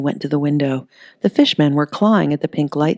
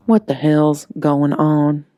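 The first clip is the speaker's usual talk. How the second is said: slow, deadpan, unshaken; flat calm; slower than usual. Acted. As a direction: ask it dead calm while covered in slime. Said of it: "in a flat, calm voice".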